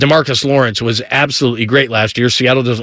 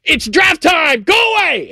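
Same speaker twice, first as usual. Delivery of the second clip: mock yell; slower than usual. Husband brushing off his wife during the draft, mock shouting. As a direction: shout him off like nothing else matters. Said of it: "And I go".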